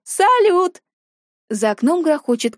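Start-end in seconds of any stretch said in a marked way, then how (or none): 0.0-0.8 cheer. Acted. Crowd cheering fireworks.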